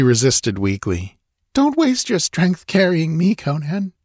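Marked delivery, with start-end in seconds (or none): 1.5-3.9 put-on high girl's voice, pleading; begging him to put her down. A narrator's reading. Natala pleads with Conan carrying her, high plea. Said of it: "she pleaded".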